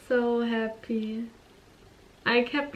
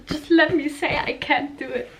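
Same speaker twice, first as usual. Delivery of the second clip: exasperated pleading; 5 semitones higher, 4 dB louder than usual. Retold or imitated. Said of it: "And then I was like".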